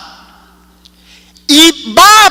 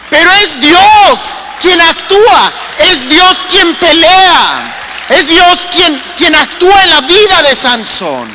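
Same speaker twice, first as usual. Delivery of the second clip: preaching shout; 3 semitones higher than usual. Real, not acted. Predicador clama con fuerza.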